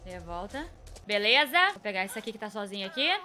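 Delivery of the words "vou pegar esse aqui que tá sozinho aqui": ordinary talk, nothing marked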